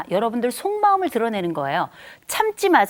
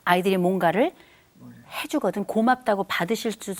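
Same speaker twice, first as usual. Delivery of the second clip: ordinary talk, nothing marked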